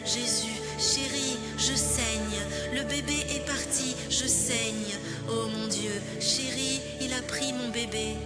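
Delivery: weak and distraught. Acted. Bleeding after losing the baby.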